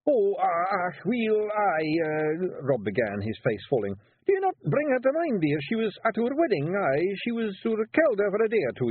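nervous husband talking his way out; flustered Feegle Rob. Acted. Rob squirming before his wife, high flustered Scots pixie.

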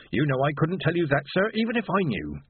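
teasing porter. Acted.

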